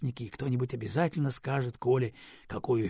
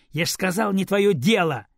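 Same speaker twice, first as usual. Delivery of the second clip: loud, higher rude retort; girl rudely shuts down her grandmother, loud and higher; 7 semitones higher, 8 dB louder than usual. Acted. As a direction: snap it back rudely at grandma. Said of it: "грубо сказала девочка".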